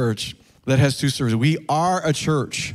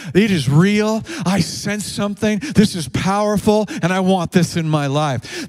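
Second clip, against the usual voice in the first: excited seeker; 5 semitones higher than usual. Retold or imitated. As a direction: sound amazed as a new believer. Seeker quoted in sermon.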